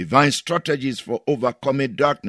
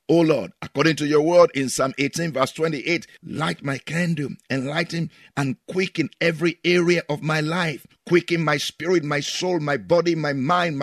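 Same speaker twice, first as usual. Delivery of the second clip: climbing, intensifying prayer; fervent prayer, rising; 2 semitones higher than usual. Acted. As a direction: build the prayer to a peak. Leads prayer.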